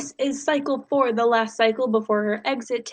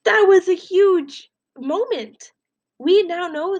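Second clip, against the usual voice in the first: excited emphasis; 8 semitones higher, 3 dB louder, slower than usual. Real, not acted. Teacher stresses key plot moment.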